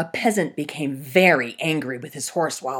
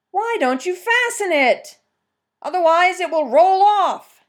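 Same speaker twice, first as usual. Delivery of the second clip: much higher, loud hunter calling; hunter's voice; 14 semitones higher, 8 dB louder than usual. Acted. Fox as hunter questioning the peasant about the stump.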